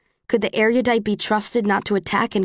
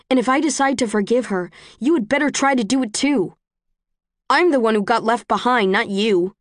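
raised, defensive rebuke; heated; 3 semitones higher than usual. Acted. Quarrel on the train.

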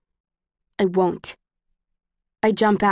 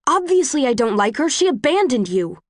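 raised, indignant retort; heated; 5 semitones higher than usual. Acted. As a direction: snap back, high and sharp. Quarrel on the train.

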